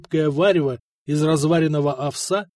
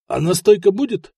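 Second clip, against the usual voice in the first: a touch of eager greed, louder; 5 semitones higher, 6 dB louder than usual. A narrator's reading. Neighbour greedily asks the host about liquor. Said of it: "жадно зашевелил ноздрями Максим".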